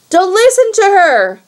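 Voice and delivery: high, loud shout from afar. A narrator's reading. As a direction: shout a warning across the yard. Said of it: "Annabeth's voice shouted".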